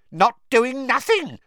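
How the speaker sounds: high, loud mischievous cackle; high cackling troublemaker; cackling poltergeist. Acted. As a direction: taunt them gleefully. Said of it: "cackled Peeves".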